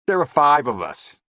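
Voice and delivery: gruff gangster boss; Lavelle voice. A narrator's reading. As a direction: growl it like a crooked boss.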